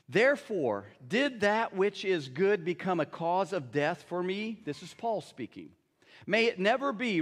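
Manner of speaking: measured, deliberate Bible reading; scripture reading. Acted. Pastor reading Romans to the congregation, measured scripture reading. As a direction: read the passage with weight.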